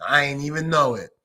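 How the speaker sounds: low, unhurried imitation of a pleased boss; Jerry Jones. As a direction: drop your voice and play a self-satisfied older-boss thank-you. Co-host voices a pleased Jerry.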